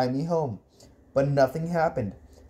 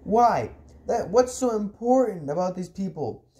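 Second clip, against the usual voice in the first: high, exasperated demands; indignant, high-pitched interrogation; angry questioning; 5 semitones higher than usual. Acted. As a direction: fire the questions with raised pitch. Boy angrily questions his uncle.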